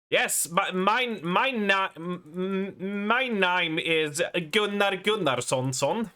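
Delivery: put-on slow, halting Swedish accent. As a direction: stumble through the intro in a Swedish accent. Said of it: "I do like that Swedish accent".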